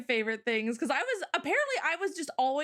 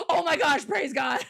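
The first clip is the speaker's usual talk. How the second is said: louder grateful outburst; relieved exclamation; 2 semitones higher, 5 dB louder than usual. Retold or imitated. A lost foreigner in Seoul flagging her down, relieved. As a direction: sound saved at last.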